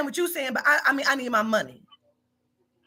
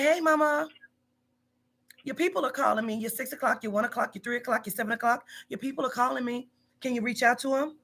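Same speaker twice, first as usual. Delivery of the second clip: softer, calm, easygoing nudge; softer, reassuring check-in with a worker; gentle reminder; 6 dB quieter than usual. Retold or imitated. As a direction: talk to her like a friend. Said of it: "I don't come at you like that".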